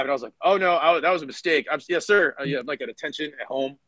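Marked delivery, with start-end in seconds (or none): 0.4-2.3 flustered. Retold or imitated. Flustered realizing mistake.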